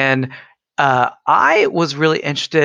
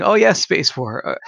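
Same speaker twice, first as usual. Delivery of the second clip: laughing; 4 semitones higher than usual. Retold or imitated. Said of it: "it was just me saying".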